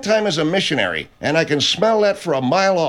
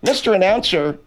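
indignant; 2 semitones higher than usual. Acted. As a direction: tell him off. Scolding the announcer.

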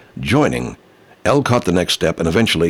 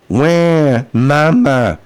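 put-on baby crying wail; 5 semitones higher, 3 dB louder, much slower than usual. Mantra chanted again.

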